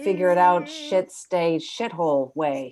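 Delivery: exasperated mock yogi, loud on the curse; a guru losing patience mid-blessing; frustrated fake namaste. She voices her own frustration with forced calm. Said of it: "It would be like".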